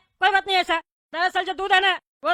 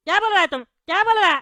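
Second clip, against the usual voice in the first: yelling; 2 semitones higher, 4 dB louder than usual. Acted. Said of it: "चिल्ला रहे, कान में दर्द हो रहा है।".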